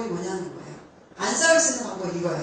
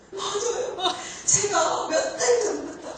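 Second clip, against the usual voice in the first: put-on high, laughing teen-son voice; a son blurting it out, half laughing; son's voice; 9 semitones higher, slower than usual. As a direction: play the eager son through a laugh. Mother voices her teenage son.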